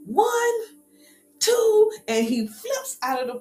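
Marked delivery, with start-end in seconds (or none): 0.0-1.9 counting down. Retold or imitated. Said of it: "He goes".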